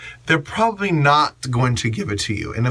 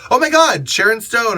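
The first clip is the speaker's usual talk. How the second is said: high loud gasping star spotting; hammed-up shriek of recognition, much higher; mock freakout; 8 semitones higher, 4 dB louder than usual. Bystander mocking freakout.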